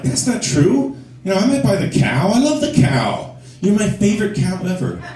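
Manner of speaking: high, earnest protest; pleading reassurance. Acted. Boyfriend reassures girlfriend about the cow, pleading.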